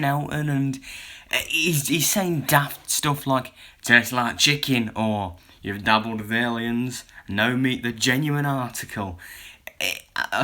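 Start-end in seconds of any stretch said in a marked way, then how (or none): 3.8-4.9 a slow, louder Welsh accent, hammed up badly; mock Welsh accent for the monster's line; terrible Welsh accent. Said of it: "sorry for my terrible Welsh accent". 5.6-9.2 a bad Welsh accent, lightly put on; doing the monster in a clumsy Welsh accent; terrible Welsh accent. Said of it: "sorry for my terrible Welsh accent".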